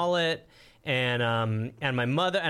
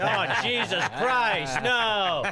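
slow, laughing groan of disbelief; mock horror, laughing and slow; laughing dismay; 5 semitones higher, much slower than usual. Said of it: "And you're like".

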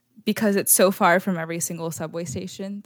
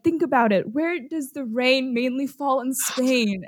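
coaxing quiz question; 4 semitones higher than usual. Retold or imitated. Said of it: "one guy is like".

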